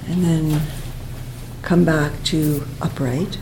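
unhurried breathing-exercise guidance with long pauses; guided meditation. Real, not acted. Teacher guiding students to breathe into the chest, calm meditation voice. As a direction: guide them gently through the breath, leaving space.

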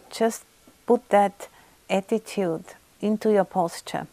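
calm, unhurried guiding with long pauses; measured meditation-teacher delivery; guided meditation. Real, not acted. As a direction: ease them gently into body awareness, phrase by phrase. Guides a body-awareness meditation.

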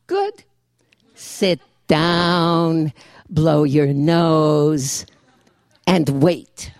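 Jewish grandmother. Acted. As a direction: lecture like a wise old Jewish grandmother. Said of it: "written in the voice of the Jewish grandmother".

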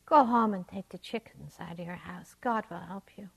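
calm, settled rabbi reply; serene. Acted. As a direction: soothe him without hurry. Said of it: "replied the rabbi serenely".

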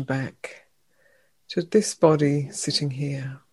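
unhurried meditation guide, long pauses between phrases; guided meditation. Real, not acted. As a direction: gently lead them into stillness, leaving room after each phrase. Leads a meditation.

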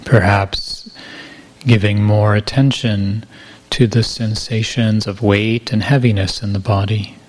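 calm, unhurried meditation guidance with long pauses; guided meditation. Real, not acted. Teacher guiding retreatants to feel body weight and gravity, guided meditation. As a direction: ease listeners gently into the body, pausing between phrases.

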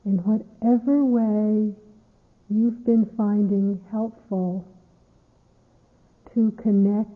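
unhurried meditation guidance with long pauses; guided meditation. Acted. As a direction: ease listeners into stillness, phrase by phrase.

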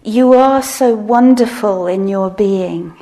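heartfelt phrase. Shown as a demonstration. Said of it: "the phrase was".

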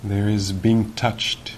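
measured guiding voice with long pauses; guided meditation. Real, not acted. Teacher guiding sitters to notice awareness, calm and unhurried. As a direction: lead them gently, leaving long silences.

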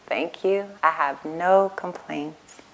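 calm, contented thanks; slow, soft and content. Shown as a demonstration. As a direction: savor each word slowly. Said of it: "Wow, great".

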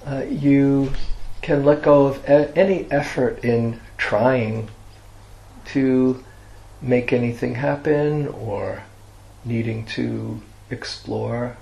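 guided meditation. Real, not acted. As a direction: guide listeners gently into resting, leaving long silences.

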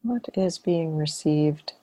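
unhurried meditation guidance with long silences; guided meditation. Acted. Teacher leading students into relaxed awareness, guided meditation. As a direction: guide them gently, phrase by phrase, leaving long pauses.

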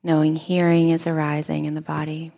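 soft, measured meditation-teacher voice; guided meditation. Real, not acted. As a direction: quietly guide listeners while they keep practicing. Leads seated meditation practice.

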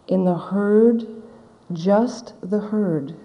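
slow, measured, weighty quote; solemn scripture recitation. Retold or imitated. Buddha instructing his monks, slow and solemn. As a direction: recite each phrase with deliberate pauses. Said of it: "And the Buddha said".

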